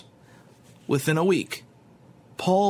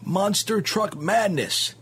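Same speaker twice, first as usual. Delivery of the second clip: monster truck ad; 5 semitones higher, slower than usual. Shown as a demonstration. Narrator mimics monster truck ad.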